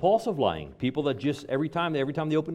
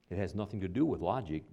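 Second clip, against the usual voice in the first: drowning reply; 5 semitones lower, 7 dB quieter than usual. A narrator's reading. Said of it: "the drowning scorpion replied".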